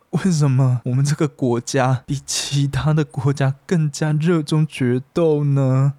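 put-on high, slow drunken question. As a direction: call out tipsily to the empty stairs. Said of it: "开始发酒疯了".

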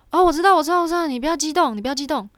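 high, loud, hammed-up "calm down" voice; exaggerated policeman telling her not to get excited; mock soothing cop. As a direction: imitate a cop brushing you off as hysterical. Mocking police brushing her off.

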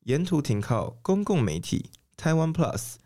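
formal radio announcer read; broadcast announcer voice. Pretend. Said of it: "你刚才为什么用播音腔讲话".

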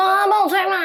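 put-on high whiny baby-talk plea; cutesy whiny pleading. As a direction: wheedle like a spoiled child. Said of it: "我会用撒娇的方式欸".

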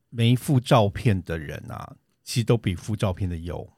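slow, stressed 都 in 都比附照片的优. Shown as a demonstration. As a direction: lean on 都 and let 优 fall. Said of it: "有趣吧？". (重读“都”，语速放慢)

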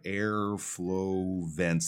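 "airflow vents" drawn out slowly; unhurried model of "airflow vents"; slow soft consonants. Shown as a demonstration. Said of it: "these are all soft consonant sounds".

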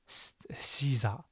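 西萨 whispered under the breath, unvoiced and soft; whispered try-out. Real, not acted. Teacher trying out how to say Caesar, whispering 西萨 to herself. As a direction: mouth 西萨 to yourself in a hushed whisper, testing it. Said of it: "这怎么讲呢？".

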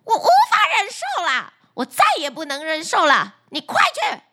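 high, shrill-pitched mock fury; hammed-up furious wife ordering him off; angry yell. Furious wife yelling at the fisherman, high-pitched mock rage. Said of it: "对渔夫吼叫道".

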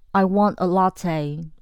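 slow, flat commanding order; blunt demand. Shown as a demonstration. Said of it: "命令的语气非常重".

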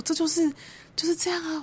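high, loud insistent exclaim to her sister; emphatic exclaim. Retold or imitated. Telling her sister about their mother, high and loud insistence.

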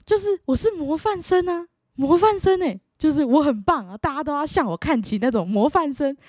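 put-on high, proud childish boasting; child bragging to her father about the award; bragging kid. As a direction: show off like a kid who won. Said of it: "反正就是这两句，然后一直repeat".

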